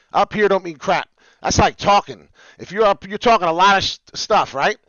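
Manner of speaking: loud, excited yelling at the viewers; real hype yell over the chart. Real, not acted. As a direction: get fired up and shout it out. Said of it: "as I'm yelling".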